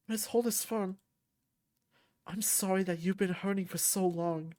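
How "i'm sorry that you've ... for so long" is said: comforting. Acted. Comforting a crying friend.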